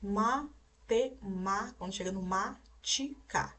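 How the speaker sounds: Matema- slowly split as ma, te, ma, then matica as ti, ca; syllable by syllable. Shown as a demonstration. Teacher locating the accent for pupils, sounding out Matema- and matica slowly. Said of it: "nós sabemos onde tem um acento".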